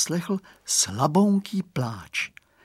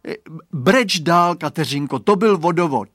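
put-on boy voice; 5 semitones higher, 7 dB louder than usual. A narrator's reading. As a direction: drag out the letdown. Boy disappointed.

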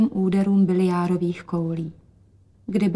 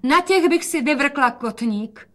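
higher, slower call; 6 semitones higher, slower than usual. A narrator's reading. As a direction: call out playfully. (zvolání)

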